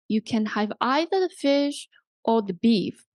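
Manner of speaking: "fish" lifted, "beef" falling to a close; rise-fall intonation. Shown as a demonstration. Teacher models the full either-or sentence, rise then fall. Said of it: "rise, fall intonation".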